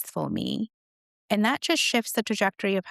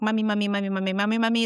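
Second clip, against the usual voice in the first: put-on pestering child; 3 semitones higher, faster than usual. Imitates daughters pestering her for attention.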